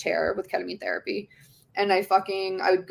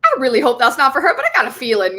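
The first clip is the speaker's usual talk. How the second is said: retold worry; 5 semitones higher, 8 dB louder, faster than usual. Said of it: "She was like, she was like".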